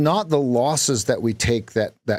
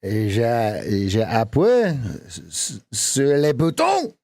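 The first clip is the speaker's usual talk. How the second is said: lightly hammed French sentence; mock French. Shown as a demonstration. Coach tries a mock French sentence. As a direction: fake French with a stumble. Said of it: "how Americans think that French speak".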